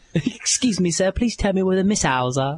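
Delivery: put-on English-accented character voice. Joking about an interrogation, ask a man your question in an English Jack Bauer voice. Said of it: "So intimidating".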